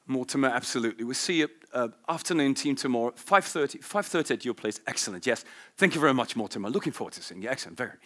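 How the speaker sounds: lightly voiced refined British accent; a touch of colonial Oxford elegance; posh Oxford English. Shown as a demonstration. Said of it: "Oxford English, I'm probably a bit more like".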